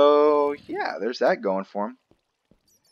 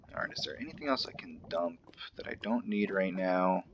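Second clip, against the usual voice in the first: whispering; 2 semitones lower, 6 dB quieter than usual. Real, not acted. Whispering to himself.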